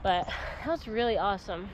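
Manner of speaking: breathless after climbing the wall; panting between words; out of breath. Real, not acted. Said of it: "I'm out of breath now".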